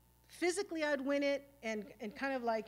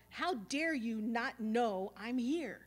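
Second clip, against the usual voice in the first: slow, drawn-out indignation; each word dragged out, wounded pride; indignant; much slower than usual. Retold or imitated. Recreating his old reaction to the woman who spilled chili, slow indignant. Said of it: "that kind of reaction of".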